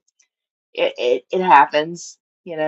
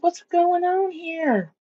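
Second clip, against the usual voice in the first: higher and slow, mock puzzled; retold confusion; 11 semitones higher, 4 dB quieter, much slower than usual. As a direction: stretch it out like you just lost the screen. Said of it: "I'm like".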